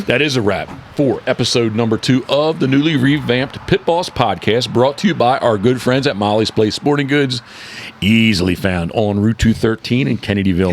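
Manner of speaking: announcer read for a sponsor; smooth radio ad voice. Acted. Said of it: "A radio voice".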